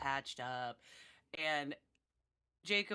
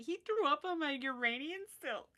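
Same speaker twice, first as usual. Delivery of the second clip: put-on higher, tattling kid voice; lightly voiced boy telling on his friend; whiny son; 9 semitones higher, 3 dB louder than usual. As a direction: point and complain like a spoiled child. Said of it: "he's gonna say".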